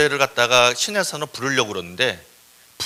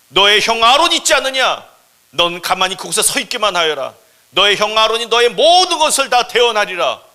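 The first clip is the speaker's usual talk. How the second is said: high, loud God voice; booming command; 6 semitones higher, 11 dB louder than usual. Acted. God ordering Moses to let Aaron speak, forceful command. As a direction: overrule the excuses with full force.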